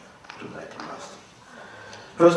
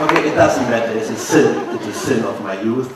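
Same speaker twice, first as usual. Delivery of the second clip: laughing confession; 10 dB louder than usual. Real, not acted. Confessing youthful hashish, laughing.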